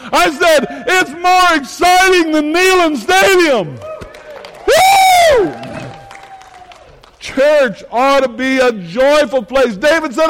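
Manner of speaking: high, loud revival preaching; full-force preaching. Acted. Pastor rousing the congregation in loud preaching. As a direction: whip the crowd up.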